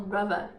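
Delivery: brother said brover, TH as a V. Shown as a demonstration. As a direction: turn the TH of brother into a V. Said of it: "troca o T H por som de F, de T ou até de V".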